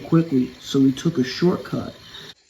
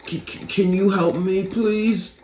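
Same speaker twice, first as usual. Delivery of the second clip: frightened stammer; 5 semitones higher than usual. Acted.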